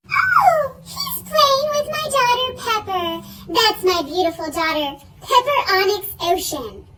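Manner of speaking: mock gushing mother; gushing mom. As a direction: gush over the daughter's name. Voicing Judy gushing.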